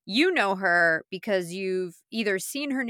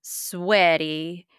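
dramatic buildup; 4 dB louder, slower than usual. Pretend. Hyping the announcement, slowing each word.

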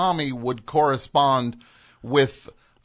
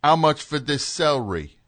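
Cockney thug. Shown as a demonstration. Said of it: "he would talk like a thug".

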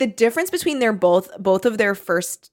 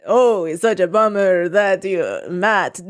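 mock Transylvanian vampire accent. Reading out Gabri's line to Matt, mock Transylvanian accent. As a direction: put on a stagey Transylvanian accent. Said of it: "speaking in a Transylvanian accent".

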